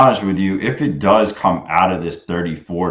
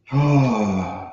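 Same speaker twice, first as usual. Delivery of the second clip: long falling sigh; drawn-out sigh, sliding down; 3 semitones higher than usual. Real, not acted. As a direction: let out a long, voiced sigh. Long sigh between remarks.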